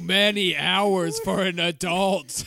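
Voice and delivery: put-on raspy old Long Island grandma; chain-smoking grandma from Long Island; Long Island grandmother voice. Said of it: "what is this Long Island two packs a day grandmother voice".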